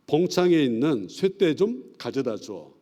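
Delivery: slow, drawn-out Jeolla country speech; Jeolla dialect. Shown as a demonstration. Pastor demonstrating old Jeolla words to the class, Jeolla accent. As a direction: ask for the key like an old Jeolla local. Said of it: "전라도는 좀".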